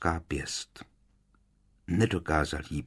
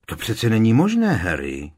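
gentle disbelief, pitched up; higher-voiced, well-meaning objection; kindly; 5 semitones higher, 7 dB louder than usual. A narrator's reading. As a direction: kindly contradict a friend. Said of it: "ozvala se po několika vteřinách laskavě Hermiona".

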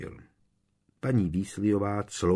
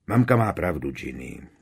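kind voice; 4 dB louder than usual. Acted. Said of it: "laskavým hlasem Bill".

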